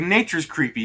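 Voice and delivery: hammed-up Italian flourish; big theatrical Italian delivery; Italian gesturing. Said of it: "waves a hand while talking like an Italian".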